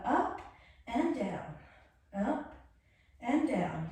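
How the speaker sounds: a hint of an aerobics instructor on "up" and "down"; mild retro fitness-video cue; eighties workout video. Shown as a demonstration. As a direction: lightly call "up and down" like an old workout tape. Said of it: "If you want to be more nineties, eighties video, workout video".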